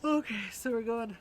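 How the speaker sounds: talking through a yawn. Real, not acted. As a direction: yawn while speaking. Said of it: "I don't know why I'm yawning so much".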